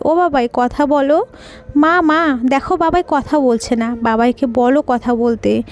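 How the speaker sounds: put-on crying child. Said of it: "Raisa কাঁদছে আর বলছে".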